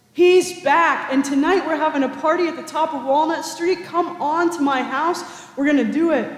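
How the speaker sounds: a father overjoyed, calling the whole shop to celebrate; joyful announcement. Acted.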